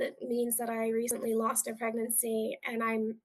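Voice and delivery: patient telling the nurse why she is scared, calm and soft; calm and polite. Retold or imitated. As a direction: explain it gently and politely. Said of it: "very calmly and politely said".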